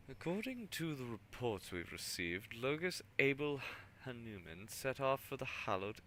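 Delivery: a polite but wary governor. Acted. Governor speaks to tech priest.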